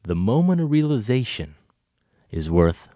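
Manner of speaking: drawn-out, halting monologue delivery; deliberate hammy soliloquy, phrase by phrase; very slow. Acted. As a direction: intone it slowly with long dramatic pauses. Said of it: "Have you ever talked that slowly".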